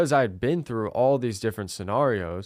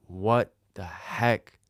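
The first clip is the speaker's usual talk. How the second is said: slow, drawn-out mock amazement, voice changed; stunned disbelief; much slower than usual. Sales manager after the saved call, slow stunned disbelief. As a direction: stretch it out like he can't believe it. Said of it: "The sales manager was like".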